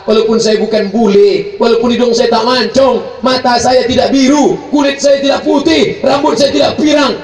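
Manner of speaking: building. Real, not acted. Building list in sermon.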